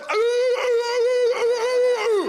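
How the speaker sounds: high, loud ooh calls; loud gung-ho soldier. Retold or imitated. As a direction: belt the cadence calls. Military cadence calls.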